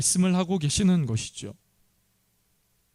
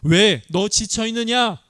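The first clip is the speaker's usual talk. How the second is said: higher, louder and slow, a scolding question; mock rebuke from God; 5 semitones higher, 4 dB louder, slower than usual. Pastor voicing God's rebuke that God never gave, higher and slow. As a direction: ask it like a stern God chiding. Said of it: "책망하시는 게 아니에요".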